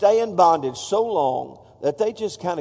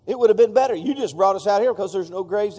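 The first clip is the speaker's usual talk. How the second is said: accusing Israelites. Retold or imitated. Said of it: "their response is".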